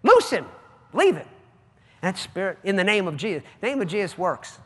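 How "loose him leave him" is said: louder stern command to a demon; commanding rebuke. Retold or imitated. Minister rebuking the demon, loud stern command. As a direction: order the spirit out firmly. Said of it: "told the spirit".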